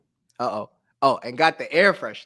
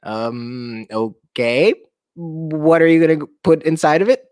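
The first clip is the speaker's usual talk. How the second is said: a touch scared. Acted. Mom asking her child what goes in her mouth, mildly scared. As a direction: sound a little nervous about the mouthful. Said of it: "She sounded pretty scared".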